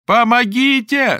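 high, loud, drawn-out scream; screaming for help. Acted. Lera screams for help with all her strength. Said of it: "закричала Лера изо всех сил".

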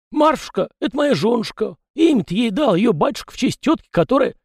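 high chatty peasant voice, pitched well up; folksy yard spirit. A narrator's reading. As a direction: play the fussy little yard spirit, talking nonstop. Tikhon speaks.

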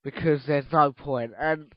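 worn-out voice, fading; voice giving out. Real, not acted. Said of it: "I'm literally losing my voice".

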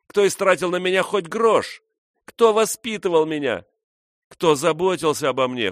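high, loud furious ranting woman; angry outcry. A narrator's reading. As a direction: rage at them, voice cracking high and loud. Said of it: "в порыве злобы крикнула".

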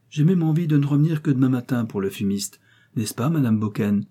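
voisine mielleuse. Acted. Voix de madame Minot.

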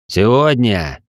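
booming demon voice from the dark; eldritch horror. Acted. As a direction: call out like something ancient and huge. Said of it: "Низкий голос раздался из глубины". (голос древнего демона)

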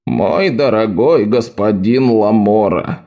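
slow weary sigh; patient exasperated sigh. Acted. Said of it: "вздохнул Эбелиус".

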